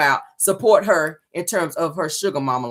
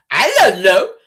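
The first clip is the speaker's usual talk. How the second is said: put-on high, slow lisping child voice, a thick tongue; mock kid voice asking daddy; lisping little girl; 5 semitones higher, slower than usual. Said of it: "That thick tongue came on in there".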